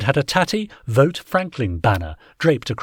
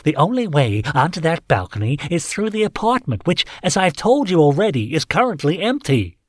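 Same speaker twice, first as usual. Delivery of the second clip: irritated landlord voice; 6 semitones higher than usual. A narrator's reading. Tinkler's voice, exasperated.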